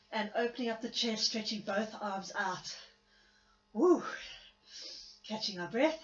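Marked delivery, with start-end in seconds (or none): 3.7-4.0 loud, high whoop of relief; relieved whoop. Real, not acted. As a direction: let out a happy whoop after the effort. Relief after hard stretch.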